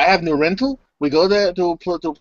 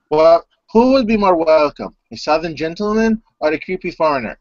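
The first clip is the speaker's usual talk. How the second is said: creepy gentleman voice; 3 semitones higher, 3 dB louder than usual. Acted. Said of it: "This is my creepy gentleman voice".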